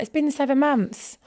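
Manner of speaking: high, slow put-on client voice; mimicking the client's excuse; voicing the client. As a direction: play the indignant client.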